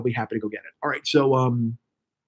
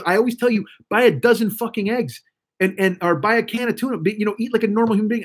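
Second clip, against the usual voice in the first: retold exasperated lecture; 5 semitones higher than usual. Friend lecturing him, retold.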